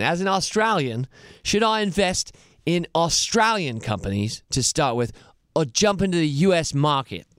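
mock Australian accent, lightly put on; weak imitation of an Australian accent; lame Aussie accent. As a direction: read the question in a bad Australian accent. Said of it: "my lame Aussie accent".

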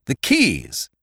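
a touch of eagerness on keys; eager cry. Acted. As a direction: pounce on the word keys. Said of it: "cried Ned eagerly".

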